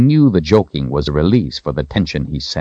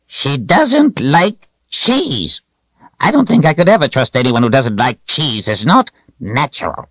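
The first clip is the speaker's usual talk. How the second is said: mock-grave old man; 10 semitones higher than usual. A narrator's reading. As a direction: draw out the absurd verdict in a high voice. Old wizard Zed's character voice.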